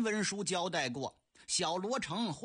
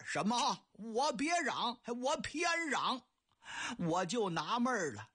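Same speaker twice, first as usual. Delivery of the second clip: put-on old man rising higher in indignation; indignant old man; 3 semitones higher than usual. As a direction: throw his words back at him. Old man shouts defiantly.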